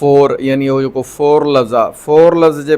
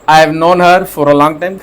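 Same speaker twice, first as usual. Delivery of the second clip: slow example reading; 3 dB louder, much slower than usual. Shown as a demonstration. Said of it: "teacher reads example slowly".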